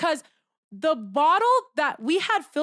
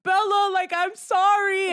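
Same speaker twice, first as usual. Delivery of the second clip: retold pleading apology; 8 semitones higher, 4 dB louder than usual. Acted apology in retold quarrel.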